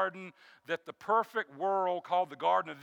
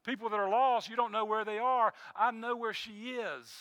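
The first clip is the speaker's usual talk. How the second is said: grieving husband's words; 5 semitones higher than usual. Retold or imitated. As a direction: let each word land, steady through grief. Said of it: "He says".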